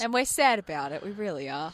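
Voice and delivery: mildly sarcastic mock regret. Real, not acted. Host signing off for the weekend, lightly sarcastic. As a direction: feign sadness at the show ending. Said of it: "that was sarcasm".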